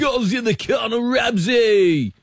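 excited shouted footy call; Ray Warren commentator impression. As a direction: call the goal like a hyped commentator. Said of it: "the great Rabs Warren".

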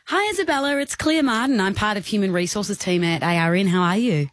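lightly put-on professional caller; Claire Martin. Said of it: "I'm pretending to be".

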